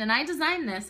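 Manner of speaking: usual speaking voice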